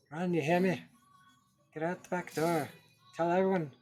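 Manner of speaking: father shouting for his son to escape; desperate shout. Acted. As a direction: yell at him to run. Dying father urging son to flee.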